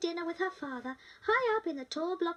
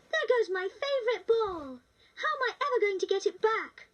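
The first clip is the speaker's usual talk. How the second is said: put-on upset little girl; 5 semitones higher, 4 dB louder than usual. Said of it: "cried the little girl".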